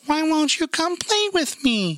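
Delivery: very high, slow sing-song plea; eerie drawn-out little falsetto; creepy thrown voice. Retold or imitated. Woman voicing a fake skeleton in a haunted maze, creepy thrown voice. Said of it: "it was a chick throwing her voice".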